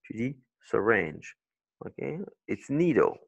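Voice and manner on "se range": "se range" as suh-RINGE; weak "se", strong falling "range"; second-syllable stress. Shown as a demonstration. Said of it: "c'est sur la deuxième".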